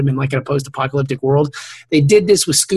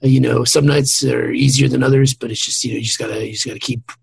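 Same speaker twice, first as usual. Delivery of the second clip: mock post-game athlete, halting and low-key; ballplayer interview; 3 semitones lower than usual. Backstage after a night's work, mock ballplayer interview. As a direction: trot out tired sports clichés in a subdued, hesitant delivery. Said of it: "they look like Major League Baseball players".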